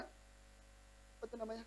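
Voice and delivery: a soft, breathless half-whisper; whispered aside. Real, not acted. The preacher searches for the word, whispering to himself. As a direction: say it under your breath.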